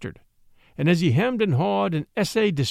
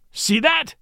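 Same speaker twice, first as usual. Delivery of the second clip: high, theatrical cry; mock outcry; 9 semitones higher than usual. A narrator's reading. Watson fakes outrage at his own bleeding nose, high theatrical cry. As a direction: cry out in staged shock. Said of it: "cried Watson".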